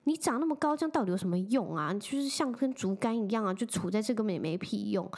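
half-acted exasperated telling-off of a boyfriend; retold angry scolding. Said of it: "然后我就超生气".

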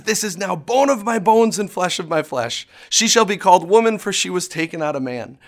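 acting out Adam's thrilled response. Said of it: "Adam was thrilled with the gift".

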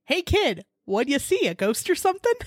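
put-on clumsy but committed Jersey accent rising at the end; attempted Jersey accent. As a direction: play a Jersey bartender, accent pushed. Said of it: "A Jersey accent".

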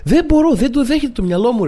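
high, strained outburst of disbelief; worked-up shouting. Acted. Imitating the man shouting at his dogs, high worked-up shouting. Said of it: "φωνάζω".

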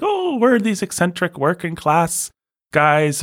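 high put-on working-class Brit voice; mock eccentric Brit. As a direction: send up a quirky film bloke. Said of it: "where it's just like".

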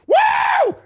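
sudden high whoop of joy; mock cheer. Pretend celebration after a win, high whooping cheer. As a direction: let out a big high woo.

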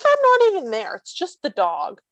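mocking lady's voice. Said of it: "they're like".

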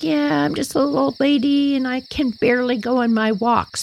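dog pretending to be a frail lady; lightly voiced old lady; little old lady. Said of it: "She'd be like".

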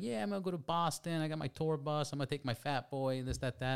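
Kevin James. Retold or imitated. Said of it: "he walks into the dealership and he's like".

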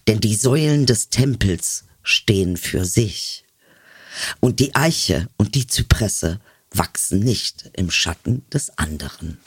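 slow, solemn poetry recital; poem reading. Acted. Reading a love poem aloud to her friend, solemn and measured. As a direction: read it like a sacred verse.

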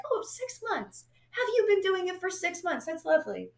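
drip fake sweetness over it; sarcastic. Mocking the shaky nurse in high, sugary sarcasm.

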